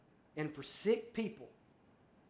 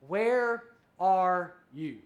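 slow, louder call across the garden; God calling the man, drawn out; calling out slowly; 6 dB louder, much slower than usual. Acted.

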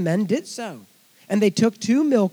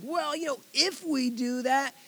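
evasive priests; 6 semitones higher, 4 dB quieter than usual. Retold or imitated. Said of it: "they're like".

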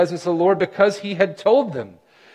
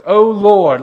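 a loud O Lord cried out; loud cry; 3 semitones higher, 8 dB louder than usual. Acted. Preacher crying the sailors' prayer, loud.

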